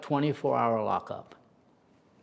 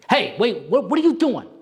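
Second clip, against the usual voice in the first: rising, louder alarm, much higher at the end; startled; 9 semitones higher, 5 dB louder than usual. Retold or imitated. Inmate surprised to find Wolfie staring, startled cry. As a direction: caught off guard, voice jumping up.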